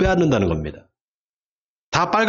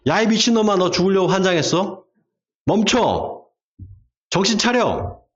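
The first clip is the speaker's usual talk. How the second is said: higher-pitched, urgent scolding; mock warning shout; 4 semitones higher than usual. Shown as a demonstration. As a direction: yell a warning at someone in danger, half-shouted. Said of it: "소리를 질러야 되는 겁니다".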